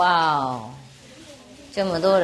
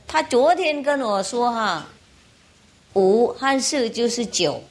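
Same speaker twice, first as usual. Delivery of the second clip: put-on child explaining; 5 semitones higher than usual. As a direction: spell out the sums like a puzzled child. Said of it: "那个小孩就说".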